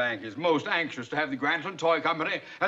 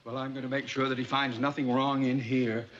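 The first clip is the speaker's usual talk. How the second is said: ordinary delivery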